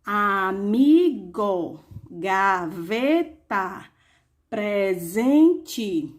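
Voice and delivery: very slow, each syllable of Amigo, gaveta, presente split apart. Shown as a demonstration. Teacher to class, splitting three-syllable words slowly. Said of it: "Temos trissílabas".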